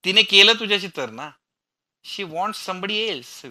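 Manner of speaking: loud, high furious cry, slowing at the end; shouting back. A narrator's reading. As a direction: scream it back at him. Michelle yelling back in quarrel. (मिशेल विराजवर चिडून किंचाळते)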